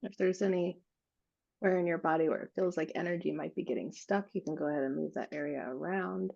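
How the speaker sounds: calm, unhurried meditation guide with long pauses; guided meditation. Acted. Guiding a group to breathe into an expanding bubble, calm meditative voice. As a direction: lead them gently through each breath, leaving space.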